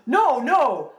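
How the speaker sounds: high, loud, panicked refusal; alarmed protest. Acted. Troll fears losing his well, panicked.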